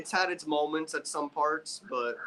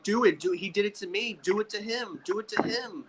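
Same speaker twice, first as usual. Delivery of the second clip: hammed-up bossy yelling at Jay; mock Roman barking orders; 8 semitones higher than usual. Retelling Roman pushing Jay around.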